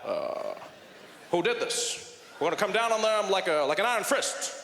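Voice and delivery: a touch of a stern president at a podium; a hint of a tough president at a press conference; Barack Obama impression. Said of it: "Barack Obama, he was there, he's like".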